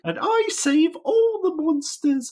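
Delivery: very high, slow, loud mock heroine; D and D character voice. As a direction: declaim like a hammy role-player. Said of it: "putting her D and D character in".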